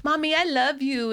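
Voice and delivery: sweet mimicked child's declaration; lovey. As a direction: imitate a daughter being all lovey. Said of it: "when she's all lovey".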